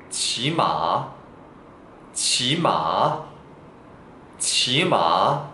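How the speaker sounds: 지마 drawn out very slowly; Chinese word demo. Shown as a demonstration. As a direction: stretch 지마 for learners. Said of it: "말을 타다". (지마를 아주 천천히)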